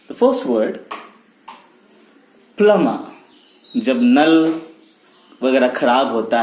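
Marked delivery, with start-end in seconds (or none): 2.6-3.0 "plumber" as PLUM-ma, B left out; silent B. Shown as a demonstration. Teacher introducing the first word, silent B. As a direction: say "plumber" firmly without any B. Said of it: "प्लम्बर नहीं".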